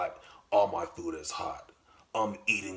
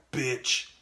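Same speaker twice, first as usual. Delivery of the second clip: sharp bark; 6 semitones higher than usual. Retold or imitated. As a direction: bark it at her. Bossing girlfriend around.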